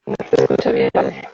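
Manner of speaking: choppy robotic call audio; glitchy low robotic connection. Real, not acted. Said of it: "Yo le escucho un poco robóticamente".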